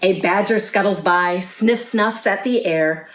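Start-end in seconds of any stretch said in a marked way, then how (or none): none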